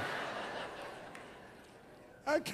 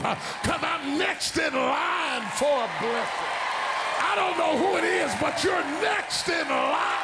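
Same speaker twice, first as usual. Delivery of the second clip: rising higher, singing sermon cadence; preaching at full force; 10 semitones higher, 3 dB louder than usual. Acted. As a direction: build the congregation up with each line. Preaching call and response.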